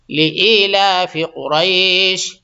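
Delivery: قریش with a full, heavy qaf from the throat, slowly; slow قریش with a clear heavy qaf and sh. Shown as a demonstration. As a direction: bring out the thick qaf in قریش. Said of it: "تو قاف نکالیے گا، یہ بڑا قاف ہے".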